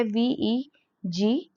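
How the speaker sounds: वी ई जी spelled slowly letter by letter; letters वी ई जी named slowly; spelling out letters. Shown as a demonstration. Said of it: "इसकी pronunciation एज की तरह होती है".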